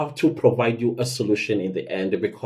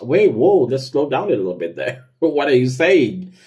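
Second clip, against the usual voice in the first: startled interruption; 2 semitones higher than usual. Retold or imitated. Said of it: "and you're like".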